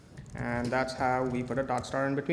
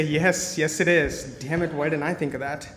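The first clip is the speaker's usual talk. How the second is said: laughing agreement; 4 dB louder than usual. Retold or imitated. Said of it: "And you say".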